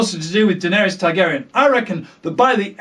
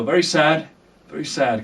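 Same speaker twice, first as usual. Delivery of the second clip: softer, low mock mournful; mock sad; 4 semitones lower, 4 dB quieter than usual. Lamenting Margaery's death, low mock sorrow. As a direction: say it with fake sorrow.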